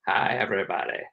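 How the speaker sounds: lightly imitated famous actor's easy greeting; a hint of the famous voice, slightly dropped; Morgan Freeman. Famous actor enters the room, lightly imitated voice. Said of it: "it's like Morgan Freeman's voice enters the room".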